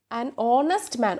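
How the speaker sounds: "honest" said slowly with a silent h, starting on an o sound; teacher modelling "an honest man" slowly and clearly; careful pronunciation demo. Shown as a demonstration. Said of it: "നമ്മളത് pronounce ചെയ്യുന്നത്".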